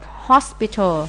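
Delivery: "hospital" stressed on HOS; first-syllable stress. Shown as a demonstration. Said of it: "nhấn âm một".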